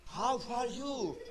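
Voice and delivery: slow, breathy demonstration greeting; breathing out. Shown as a demonstration. Preacher asking why not greet openly, breathing out slowly. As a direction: draw it out on an open exhale. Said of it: "why don't you speak".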